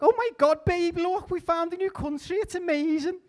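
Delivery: put-on high, loud, excited valley-girl squeal; gushing Columbus impression. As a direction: squeal it like an overexcited influencer. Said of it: "historically accurate impression of Christopher Columbus".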